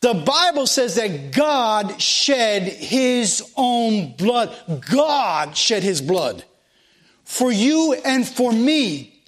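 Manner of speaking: slow, deliberate preacher's emphasis; emphatic preaching. Real, not acted. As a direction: drive it home slowly, word by word. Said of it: "the reason I'm so emphatic".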